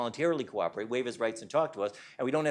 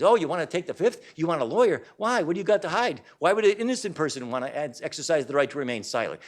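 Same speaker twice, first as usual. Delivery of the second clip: insinuating cop; 2 semitones higher, 4 dB louder than usual. Retold or imitated. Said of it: "start insinuating things".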